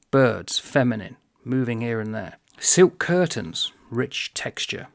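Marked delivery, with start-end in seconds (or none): 2.6-3.7 drawn-out, higher-pitched quote from the text; slow reading. Shown as a demonstration. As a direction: savour the two words slowly. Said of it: "but slowly".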